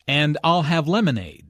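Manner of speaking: "I'll" and "lemonade" picked out to show a choice; stress on I'LL and LEMONADE. Shown as a demonstration. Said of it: "Notice how Anna stresses".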